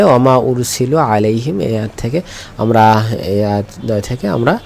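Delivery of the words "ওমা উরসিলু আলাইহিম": slow, measured Arabic chanting of the verse; ধীর কোরআন তিলাওয়াত; slow Quranic recitation. Shown as a demonstration.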